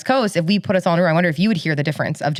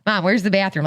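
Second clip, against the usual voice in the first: nasally Chicago accent. Shown as a demonstration. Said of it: "kinda nasally".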